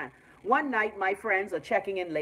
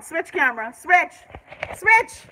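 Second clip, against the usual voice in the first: frustrated; 9 semitones higher, 7 dB louder, slower than usual. Real, not acted. Frustrated at camera.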